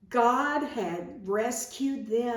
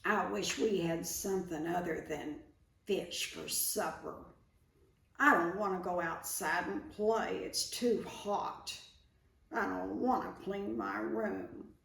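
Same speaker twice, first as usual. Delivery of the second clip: put-on low, whiny complaining kid, softer; mild grumbling child, softer; 5 dB quieter than usual. Shown as a demonstration. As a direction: mutter the complaints like a sulky child. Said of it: "talking low and complaining".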